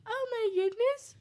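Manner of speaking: high, slow mock daintiness; drawn-out high pretend amazement; waking princess. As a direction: play a princess stirring from sleep.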